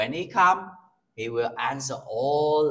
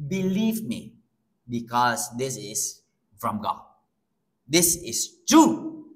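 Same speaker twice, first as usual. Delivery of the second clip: confident; 2 semitones lower than usual. Shown as a demonstration. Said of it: "Say it with confidence".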